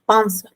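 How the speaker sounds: pans said clearly with a nasal start and falling tune; pans, one clean falling syllable; model word. Shown as a demonstration. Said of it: "suena así el comienzo". (pans claro con tono descendente)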